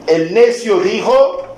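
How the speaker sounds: high, slow and emphatic on "El necio dijo"; stressed quote opening. Shown as a demonstration. Preacher stressing "El necio dijo" to his congregation. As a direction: lift and stretch "El necio dijo" to mark the missing context. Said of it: "¿qué es un necio?".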